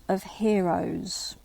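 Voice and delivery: whispered, drawn out slowly; hushed slow reading. Shown as a demonstration. Lecturer reading the riddle line to students, whispered slowly. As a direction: let the phrase fall to a slow hush.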